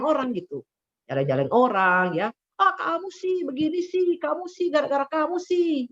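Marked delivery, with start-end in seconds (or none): 2.6-5.9 higher mock accusing voice, blaming someone; a hint of an angry blamer; blaming snap. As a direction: play the one who blames everyone, snappish. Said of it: "kelihatan banget kalau lagi marah".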